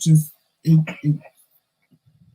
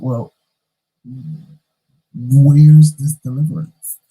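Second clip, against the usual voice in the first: mock exclaim; 9 dB louder than usual. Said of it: "So I'm like".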